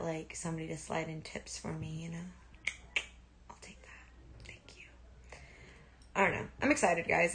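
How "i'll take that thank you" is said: whispered mock thanks; hushed pretend tip taker. Whispering thanks for an imagined tip.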